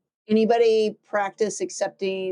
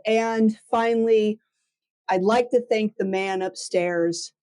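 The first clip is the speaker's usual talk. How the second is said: mock acceptance speech. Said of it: "instinctively said".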